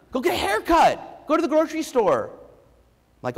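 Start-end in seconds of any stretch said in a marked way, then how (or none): 0.1-2.3 mock the breezy upbeat therapist; chipper therapist voice. Therapist telling Ethan after the head slam, high chirpy.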